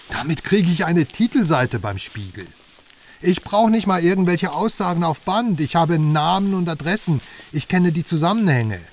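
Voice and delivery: proud, rising boast; triumphant boast. Acted. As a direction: crow about the big story. Boasting about his scoop.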